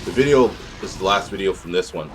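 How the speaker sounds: halting, repeating restarts; stuttering. Real, not acted. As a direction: stumble over the words. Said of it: "this fucking stuttering in the video is making me stutter".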